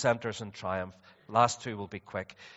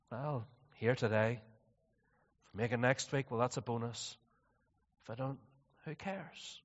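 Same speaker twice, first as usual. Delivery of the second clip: apathetic; 3 dB quieter than usual. Acted. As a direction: shrug it off quietly. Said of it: "Are you apathetic about these things?".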